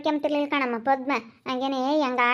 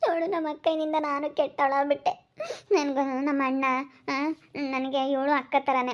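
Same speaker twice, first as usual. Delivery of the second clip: acted tearful self-pity, softer; 3 dB quieter than usual. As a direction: lament through sniffles. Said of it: "ಕಣ್ಣೀರ್ ಹಾಕ್ಬೇಡ". (ಅಳುತ್ತಾ ಗೋಳಾಡುವ ಧ್ವನಿ)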